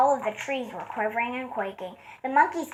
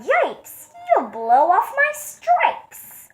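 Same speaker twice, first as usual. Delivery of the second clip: high, loud, slowed panic; zebra's loud high yelp of alarm; yelling zebra; 8 semitones higher, 5 dB louder, much slower than usual. Acted. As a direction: yell it out in alarm. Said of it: "The zebra yelled".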